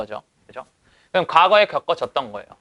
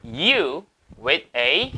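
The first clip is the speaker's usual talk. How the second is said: reads the English line slowly, word by word; much slower than usual. Shown as a demonstration. Teacher reading the example sentence aloud slowly. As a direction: spell out the sentence for students.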